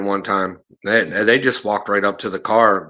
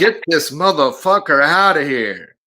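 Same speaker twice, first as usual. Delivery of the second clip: slow, higher mock-furious order; retold angry order; 4 semitones higher, slower than usual. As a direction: imitate a fed-up man throwing someone out, drawn out. Retold furious man ejecting fugitive.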